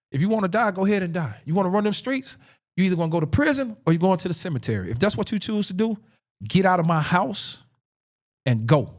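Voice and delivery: mock stern warning without shouting; retold maternal ultimatum.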